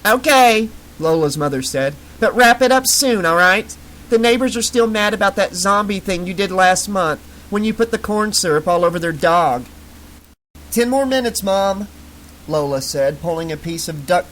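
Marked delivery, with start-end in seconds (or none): 0.1-9.6 breathy mother. Acted. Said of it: "high-pitched, breathy voice". 10.7-11.9 calling out. Acted. Calling out to mother.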